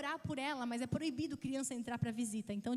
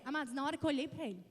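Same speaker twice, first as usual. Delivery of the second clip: ordinary talk, nothing marked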